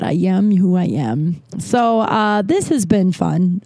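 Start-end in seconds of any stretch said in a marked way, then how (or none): 0.0-1.4 mock self quote. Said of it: "who says that?".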